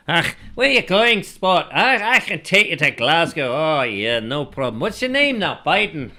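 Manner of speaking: high, loud, hammed-up Scottish taxi driver; terrible Scottish accent. Host mocks a Glasgow taxi driver in a bad Scottish accent. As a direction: put on a bad Scottish cabbie voice. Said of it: "that's a terrible Scottish accent".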